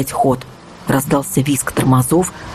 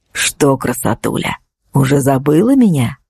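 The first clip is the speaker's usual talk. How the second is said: insinuating; 2 semitones lower than usual. Acted. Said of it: "вкратчиво переспросил водитель". (вкрадчиво, с угрозой)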